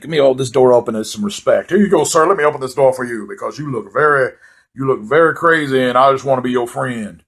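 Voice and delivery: mock the guy's nervous courtesy; mocking door-holder. Imagined door-holder's thoughts voiced.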